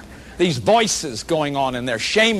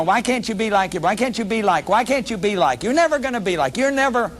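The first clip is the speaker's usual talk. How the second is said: imitating a parent's reproachful nagging, rising higher; mock nagging comparison; 4 semitones higher than usual. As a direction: scold a child by comparing them.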